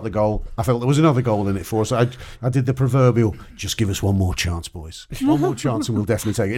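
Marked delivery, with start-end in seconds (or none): 3.5-6.6 put-on Cockney accent. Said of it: "In a Cockney accent".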